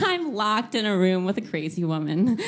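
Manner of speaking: chuckling half-panic; laughing panic. Retold or imitated. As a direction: laugh through the repeat. Repeats with a laugh.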